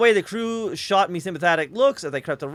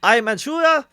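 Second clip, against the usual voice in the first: grating rumble; 6 semitones higher, 5 dB louder than usual. A narrator's reading. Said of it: "it said in a grating rumble".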